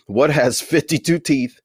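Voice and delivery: laughing through the joke. Real, not acted. Telling joke while laughing.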